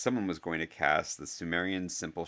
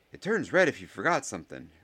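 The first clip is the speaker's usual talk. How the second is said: higher, louder, lively explaining; Ernie's schoolboy voice; 6 semitones higher, 5 dB louder than usual. A narrator's reading. Ernie explains the ball to Harry, high-pitched.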